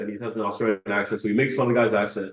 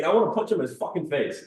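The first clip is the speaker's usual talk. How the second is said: angry Andrew Tate; 3 semitones higher than usual. Retold or imitated. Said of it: "he's, like, really angry in the video".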